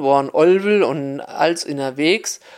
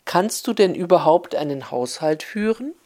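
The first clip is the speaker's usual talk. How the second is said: standard High German. Retold or imitated. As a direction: spell it out in proper Hochdeutsch for the foreigner. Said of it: "sät sie es noch einmal auf Hochdeutsch".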